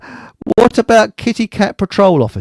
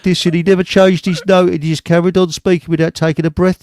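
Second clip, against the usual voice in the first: boring monotone DJ drone; John Peel. Retold or imitated. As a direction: imitate a dull late-night DJ, never changing note. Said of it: "Spoke very boring like this".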